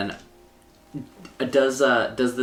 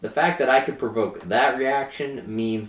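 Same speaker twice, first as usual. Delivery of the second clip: put-on southern accent. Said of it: "I just go right back to my southern accent".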